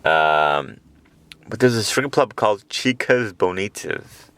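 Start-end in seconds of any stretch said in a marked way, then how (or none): 2.7-4.3 Chicas Bonitas with Spanish vowels; Spanish pronunciation. Shown as a demonstration. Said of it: "you have to say it like that".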